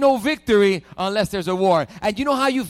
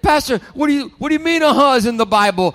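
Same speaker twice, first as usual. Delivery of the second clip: high, louder mock confusion; imitating a confused listener asking the pastor; puzzled congregant; 4 semitones higher, 7 dB louder than usual. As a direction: play the baffled church member asking. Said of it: "And you're like".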